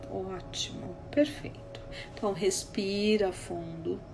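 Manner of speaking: hushed calming voice, unhurried; soothing therapist. Retold or imitated. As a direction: gently talk someone down from panic. Soothing client, guiding breathing.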